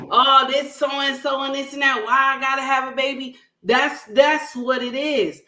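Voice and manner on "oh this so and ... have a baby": mildly mad mock complaint; lightly annoyed imitation of a woman complaining; imitating her getting mad. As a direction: act out her griping, speeding up. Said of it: "She get mad and she like".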